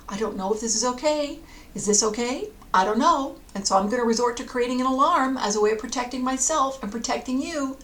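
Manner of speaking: worried alarm, quickening as it goes on; anxious dog. Acted. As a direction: voice a fretting, uncertain dog. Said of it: "bark out of fear".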